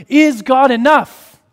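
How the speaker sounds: high, loud and slow, stressing Is; ringing question. Acted. Preacher asking his congregation the core question, loud and slow. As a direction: call the question out to the whole hall.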